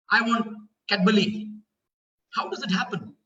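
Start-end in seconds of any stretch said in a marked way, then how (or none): 0.1-1.5 Cadbury as "Cad-buh-lee", L for R; toddler mispronunciation. Retold or imitated. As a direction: imitate a small child asking for Cadbury with an L for the R. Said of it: "They cannot pronounce the sound of R".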